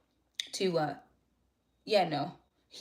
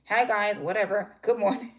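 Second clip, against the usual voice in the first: grudging greeting; 3 semitones higher, 7 dB louder than usual. Retold or imitated. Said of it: "I was mad this morning".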